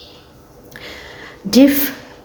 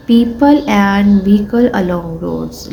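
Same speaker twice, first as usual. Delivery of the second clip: slow, careful textbook reading; teacher reading a sentence to pupils; slow reading aloud; much slower than usual. Shown as a demonstration. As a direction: read each word slowly for the class.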